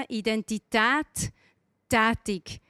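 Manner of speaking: Identität drawn out slowly, then Tätig set apart after a pause; split into two words. Shown as a demonstration. Preacher splitting the word Identitätig into Identität and Tätig, slow and deliberate. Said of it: "Hat zwei Worte drin".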